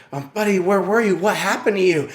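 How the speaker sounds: retold anxious dad; worried father. Father questioning his found child, worried.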